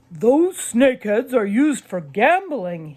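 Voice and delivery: a proud collector showing off his find; Mister Malloy. A narrator's reading. Proud dad shows the kids his snakeheads, lightly voiced.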